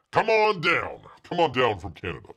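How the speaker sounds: hint of Bob Barker calling contestants; game show host call. Host imitating Bob Barker calling viewers down. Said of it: "Learn from the great Bob Barker".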